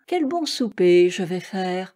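plain reading voice

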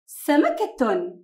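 سمكة stretched slowly, every sound clear; drawn-out word. Shown as a demonstration. Teacher sounding out سمكة for children, very slow. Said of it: "سين فتحة س".

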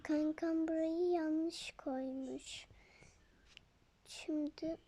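slow unvoiced whisper to a friend. Whispering to her friend about the misplaced thing, hushed. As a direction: lean in and whisper the secret. Quiet aside during pretend play.

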